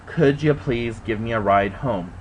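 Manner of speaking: calmly asking the friend for a ride home; polite and calm. Retold or imitated. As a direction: keep a lid on the anger, ask nicely. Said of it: "as politely and as calm ... as I could".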